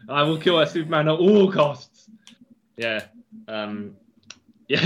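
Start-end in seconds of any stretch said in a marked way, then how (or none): 0.1-2.1 sneering panto villain. Retold or imitated. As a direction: gloat like a cartoon supervillain. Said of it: "full on, like, as though he's Doctor Doom".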